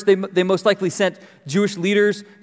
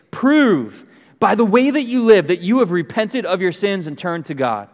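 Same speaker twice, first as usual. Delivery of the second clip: raised, emphatic scripture reading, falling at the end; harsh prophetic demand; 3 semitones higher than usual. Acted. Prophet telling listeners to repent, stern and forceful. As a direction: declaim it as a stern challenge.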